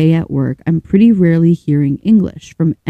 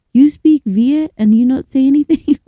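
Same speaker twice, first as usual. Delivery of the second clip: imitated indignant yell, raised pitch and volume; higher, louder, mock-accusing outburst; retold yelling; 8 semitones higher, 5 dB louder than usual. Casino dealer quotes the Vietnamese ladies yelling at her, retold yell. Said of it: "start yelling at me".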